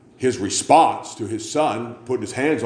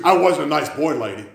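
crackhead voice; 5 semitones higher than usual. Retold or imitated. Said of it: "old crackhead voice".

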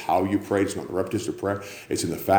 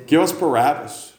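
crowd shout; 8 semitones higher, 5 dB louder than usual. Acted. Crowd demands Barabbas.

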